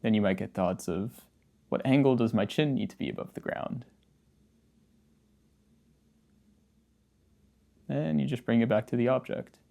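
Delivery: casual, understated meditation guidance with long pauses; easygoing meditation-teacher delivery, slightly subdued; guided meditation. Acted. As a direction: gently guide the listener through practice, leaving silences. Leads a guided posture meditation.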